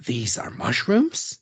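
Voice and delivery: slow, hammed-up Australian accent; terrible Australian accent. Airport officer questioning a traveller, bad Australian accent. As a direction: do a bad Aussie, drawing it out slowly. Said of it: "my terrible Australian accent".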